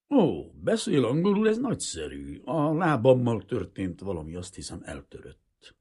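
pleased surprise from the injured pilot; pleasantly surprised. A narrator's reading. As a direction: exclaim in relieved surprise, then ease down. Surprised wounded pilot greets English speaker.

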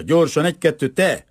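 high, loud hurrying command; shouted order. A narrator's reading. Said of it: "kiáltotta".

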